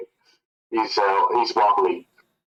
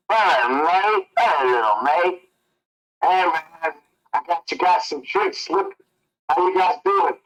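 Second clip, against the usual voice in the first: chummy barfly greeting, pitched up; Frank playing friendly; 6 semitones higher than usual. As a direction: greet them like an overeager drunk pal. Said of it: "Goody goes".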